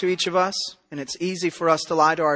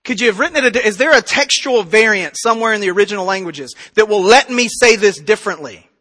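mock pleading protest; arguing with God; faster than usual. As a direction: haggle for a way out, a touch exasperated. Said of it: "me arguing with God".

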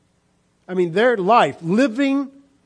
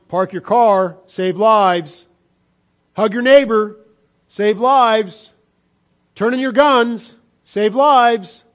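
sarcastic mock slogans; 3 semitones higher, 4 dB louder, slower than usual. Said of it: "they need to start crying".

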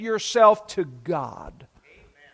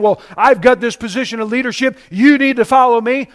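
mock self-important leader, a little louder; touting authority; 2 semitones higher, 4 dB louder than usual. Preacher imitating a new leader demanding followers, mildly bossy. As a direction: play someone lightly pulling rank. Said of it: "touting their authority".

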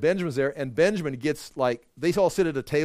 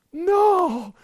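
a high, loud, shocked no; horrified no; 6 dB louder than usual. Retold or imitated. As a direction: gasp out the refusal in disbelief. Brothers horrified at Benjamin's fate.

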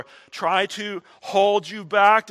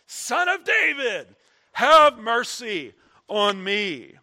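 loud pleading cry for mercy; 3 semitones higher, 4 dB louder, slower than usual. Acted. Blind man shouting past the crowd, loud plea. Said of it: "he cried out all the more".

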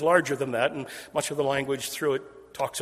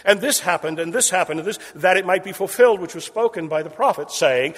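building repetition; 4 semitones higher, 6 dB louder than usual. Shown as a demonstration. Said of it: "that repeating phrase".

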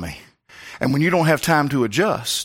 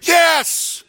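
put-on boy's squeaky answer; 4 dB louder than usual. Boy answering pastor.

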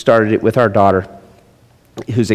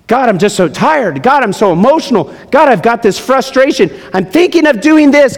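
voiced weary prayer; 11 semitones higher than usual. Voicing a tired person's prayer.

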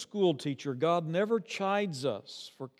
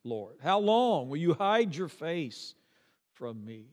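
pleading psalm; 2 semitones higher, 4 dB louder than usual. Retold or imitated. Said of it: "Four times".

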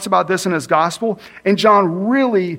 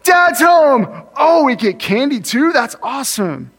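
put-on high, loud, delighted kids greeting Dad; excited kids; 7 semitones higher, 4 dB louder than usual. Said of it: "they were really surprised".

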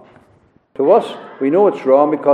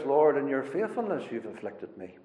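hushed, lower prayer in David's voice; voicing David's prayer to God, said quietly; prayerful quote; 5 semitones lower, 10 dB quieter than usual. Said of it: "But he says".

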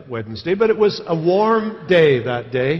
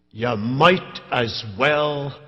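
gruff Scottish voice; 2 semitones lower, much slower than usual. Retold or imitated. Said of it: "in his rather gruff Scottish voice".

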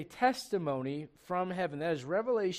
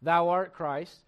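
slow contrast; 6 dB louder, much slower than usual. Shown as a demonstration. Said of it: "It's not just".

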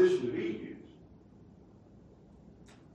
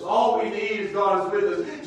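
louder repeat, rising at the end; louder refrain; 4 semitones higher, 7 dB louder than usual. Real, not acted. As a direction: repeat it stronger.

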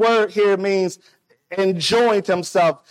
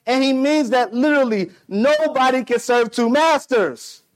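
high, insistent sermon declaration; emphatic preaching; 5 semitones higher than usual. Real, not acted. Preacher expounding Jesus' command, insistent and raised in pitch. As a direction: hammer the teaching home.

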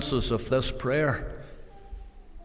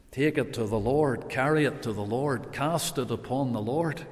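softer, lower, gentle repeated plea; soft repetition; 3 semitones lower, 8 dB quieter than usual. Real, not acted. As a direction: hush it, like a quiet refrain.

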